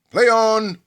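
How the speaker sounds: high, loud ringing umpire call; umpire's call. Acted. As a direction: announce it like a Wimbledon umpire opening the match. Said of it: "start our adventure together with these immortal words".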